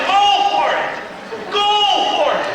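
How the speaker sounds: high excited cheer; kid's mock yell. Little kid yells encouragement skiing past, high cheer. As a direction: cheer yourself on down the slope. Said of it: "he's yelling".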